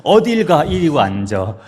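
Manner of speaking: loud, high demand that jumps out; angry confrontation. Retold or imitated. Wife cornering her husband mid-quarrel, angry confrontation. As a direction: order him back as if picking a fight.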